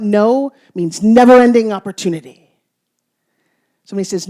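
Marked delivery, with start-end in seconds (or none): 0.0-2.5 proclaiming mantra. Acted. Punchline mantra to audience.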